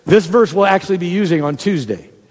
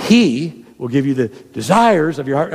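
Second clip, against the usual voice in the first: "he" held out, then "desires" given weight; slow down and lean on "he" and "desires"; deliberate reading, "he" set apart; stress on HE and DESIRES; 3 semitones lower than usual. Shown as a demonstration. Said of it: "emphasizing a different word".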